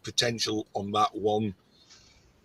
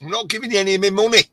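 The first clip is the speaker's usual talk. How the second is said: higher, emphatic mock refusal; retold firm refusal; 8 semitones higher, 4 dB louder, faster than usual. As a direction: re-enact shutting down a pushy caller. Retold refusal to phone seller.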